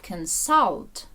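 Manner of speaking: consult with SULT stressed; stress on second syllable. Shown as a demonstration. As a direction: lean on the vowel of the last syllable in consult. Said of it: "Наголос на А".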